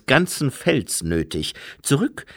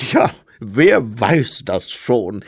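loud slow agreement; 6 dB louder, slower than usual. Acted.

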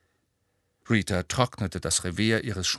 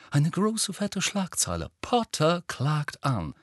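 high-pitched, savouring delivery; picture the headline, spacing it out grandly; dreamy, raised reporter's voice; rapt headline pitch; 8 semitones higher than usual. A narrator's reading.

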